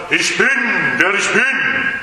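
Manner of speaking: drawn-out, grumbling divine pronouncement; rumbling God. Shown as a demonstration. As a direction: growl it out like a thundering God. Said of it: "er sagt vielleicht ganz grollend".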